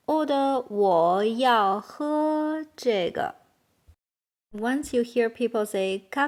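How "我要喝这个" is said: measured, drawn-out words; slow model sentence. Shown as a demonstration. Teacher showing how to order a drink, slowly.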